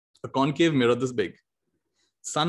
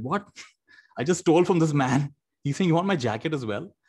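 a hint of a stunned thief, laughing; mock disbelief, a touch higher; shocked kid; 3 semitones higher than usual. Thief to himself about the kind victim, lightly surprised. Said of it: "The kid is shocked".

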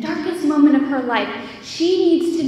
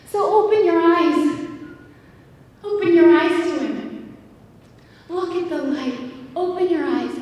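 preaching appeal; 3 semitones higher than usual. Acted.

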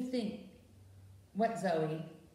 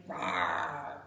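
bear roar; 8 semitones lower than usual. Shown as a demonstration. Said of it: "Can you roar like a bear?".

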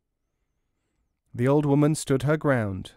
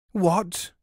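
shout; 6 semitones higher than usual. A narrator's reading. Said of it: "shouted the merchant".

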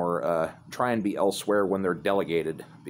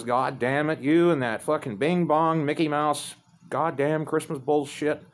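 raised-pitch imitation of dad's rant; a mildly angry retold old-man tirade; snapping dad rant; 5 semitones higher than usual. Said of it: "he just fucking snaps".

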